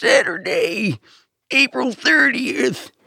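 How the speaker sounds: put-on very high-pitched elderly monster-truck announcer voice. Correcting another speaker's version, the speaker shows an old man doing monster truck voice. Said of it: "a very old man doing Monster Truck voice would be like".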